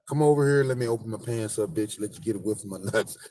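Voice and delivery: brash offer; mock crude man.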